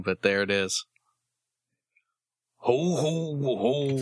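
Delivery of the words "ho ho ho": jolly slow ho ho ho; hearty Santa chuckle; Santa Claus laugh. Pretend. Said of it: "Now he's Santa Claus".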